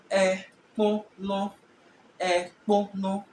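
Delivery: Ekpono drawn out slowly so E-kpo-no can be counted; slow syllable demo. Shown as a demonstration. Teacher counting syllables for the class, slowly. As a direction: say Ekpono slowly, one beat per syllable. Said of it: "three syllables".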